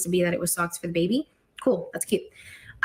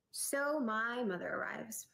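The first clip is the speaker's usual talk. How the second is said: slow, hushed whisper; 2 semitones higher, 12 dB quieter, much slower than usual. Real, not acted. Telling a story, she whispers the next twist slowly. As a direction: breathe it out slowly, like a secret.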